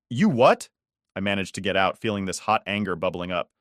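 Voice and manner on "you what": high, louder stunned question; can't believe what she hears; stunned disbelief. Acted. Stunned daughter.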